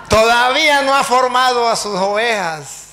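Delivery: loud, slow mock reproach; taunting pastor. Pastor taunts the priest about his untrained flock, loudly. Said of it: "Llegó el pastor riéndose".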